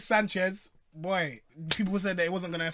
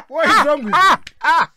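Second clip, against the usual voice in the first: laughing disbelief; 9 semitones higher, 12 dB louder than usual. Real, not acted. Mocking his co-host's bad French, laughing disbelief. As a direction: ask it while still cracking up.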